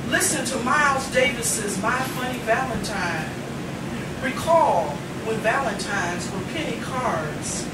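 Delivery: spoken-word poetry, rhythmic and weighted; stage poet reading aloud; poem recitation. Acted. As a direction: perform the poem to a live room. Recites Menopause the musical poem.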